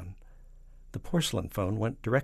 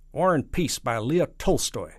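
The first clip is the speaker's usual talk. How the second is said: loud, slow, higher-pitched president; punchline delivery; 6 semitones higher, 9 dB louder than usual. Acted. President finishing his joke to the premier, triumphant punchline. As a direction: land the punchline slowly and loudly.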